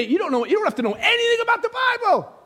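high-pitched emphatic cry; high, sustained preacher's call; preacher's exclamation. Real, not acted. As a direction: cry it out high to the whole room.

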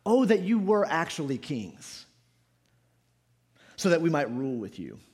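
measured, mildly ironic wish; somewhat sarcastic. Acted. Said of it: "Paul says somewhat sarcastically".

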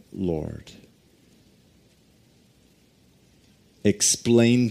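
slow, earnest prayer fading to a hush; pulpit prayer. Real, not acted. Pastor praying over the church before the sermon, earnest and hushed.

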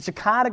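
Shekinah said shuh-KAH-nuh, stress on the middle syllable; his own way of saying Shekinah. Shown as a demonstration. Pastor to his congregation, saying Shekinah as shuh-KAH-nuh. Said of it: "I always gotta say it like that".

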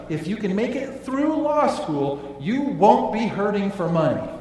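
a hint of a knowing parent; parent advising son. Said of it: "tell their son".

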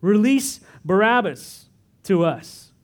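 mild mock crowd shout. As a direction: call it out like an angry mob, slow on the second line. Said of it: "But the whole crowd shouted".

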